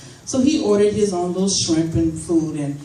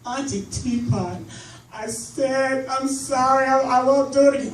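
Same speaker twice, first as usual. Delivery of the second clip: mock kid pleading; 7 semitones higher than usual. Godson pleading voice.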